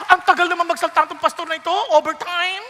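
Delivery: quick, offhand mock complaint from a bored listener; impatient grumbler. Congregant grumbling about the long sermon, fast mock complaint. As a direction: rattle it off like an annoyed churchgoer.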